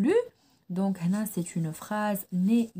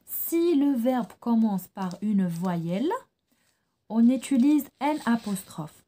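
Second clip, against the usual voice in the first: slow repeated rule; much slower than usual. Shown as a demonstration. Teacher repeating the rule slowly to pupils. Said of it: "نعاود".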